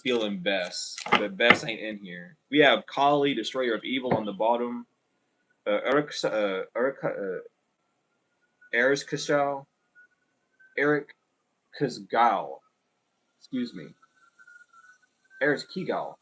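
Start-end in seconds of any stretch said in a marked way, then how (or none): 5.7-16.2 tries "Eric", "Kazgal", "Kigal" haltingly; unsure pronunciation. Real, not acted. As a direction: fumble through the goddess name. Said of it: "I just don't know how to pronounce your name".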